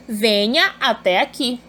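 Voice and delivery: slow, deliberate "Venha até aqui"; exclaimed imperative. Shown as a demonstration. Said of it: "ponto de exclamação de novo". (imperativo exclamado em "Venha até aqui")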